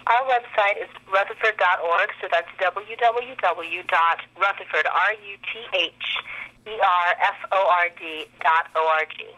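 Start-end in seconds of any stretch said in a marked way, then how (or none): 2.6-9.3 slow letter-by-letter spelling. Real, not acted. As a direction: spell the web address out slowly for the listener. Spells out the web address.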